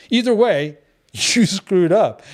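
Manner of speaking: laughing through the verdict; amused, half-laughing. Real, not acted. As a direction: chuckle out the punchline.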